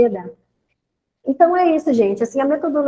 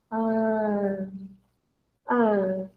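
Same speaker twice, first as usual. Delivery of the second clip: low, soft, drawn-out hesitation; imitating stumped pupil; 3 semitones lower, 6 dB quieter than usual. Pupil questioned by the teacher, mock stumped hesitation. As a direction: stall quietly on a long filler sound.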